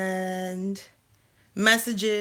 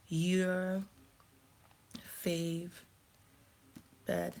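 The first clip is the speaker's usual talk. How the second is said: embarrassed whisper; 9 dB quieter, much slower than usual. Real, not acted. I'm not saying your name.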